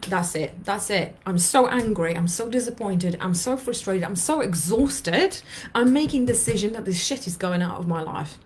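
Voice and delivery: building frustration, tone rising; model angry letter. Shown as a demonstration. Coach reading angry letter to listeners, voice rising. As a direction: say it like you mean it, fed up. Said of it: "today we say".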